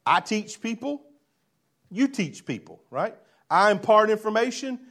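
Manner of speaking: lightly voiced Nicodemus, earnest and questioning; a hint of a curious Pharisee asking; voicing Nicodemus. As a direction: Nicodemus pressing Jesus for answers. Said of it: "here's what he's saying".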